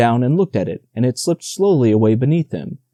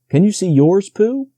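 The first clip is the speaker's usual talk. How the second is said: small Roo voice; 7 semitones higher than usual. A narrator's reading. Roo asking eagerly.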